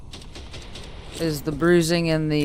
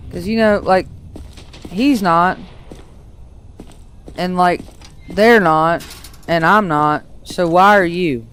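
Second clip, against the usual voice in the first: exasperated rant. Real, not acted. Ranting at the scuba-suit guy.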